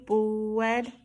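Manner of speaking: "Bread" said as "bwead". Shown as a demonstration. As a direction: lips round to W in "Bread".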